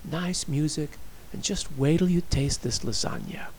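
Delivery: soft, coaxing invitation; quietly persuasive; urging. A narrator's reading. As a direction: gently coax her along. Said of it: "he urged".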